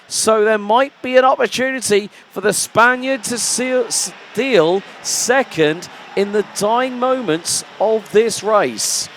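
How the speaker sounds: live race call, building tension; motorsport commentator. Acted. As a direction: call the final lap with rising tension.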